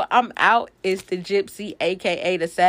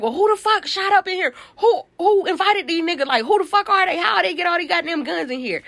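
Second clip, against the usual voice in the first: high, loud, outraged yelling at the shooters; 9 semitones higher, 3 dB louder than usual. Retold or imitated. Her own party gets shot up, a high, loud outraged yell. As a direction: shout who let these people in.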